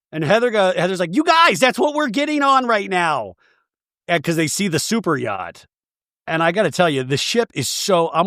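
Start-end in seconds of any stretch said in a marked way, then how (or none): 1.1-3.3 high, excited gush; mock amazement. Heather telling the ladies about the super yacht, excited. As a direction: point and gasp at the yacht.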